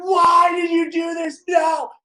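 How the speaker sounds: high, slow anguished cry; crying crowd voice. Retold or imitated. People at the event crying, high anguished plea. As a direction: plead through tears. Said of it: "people are like".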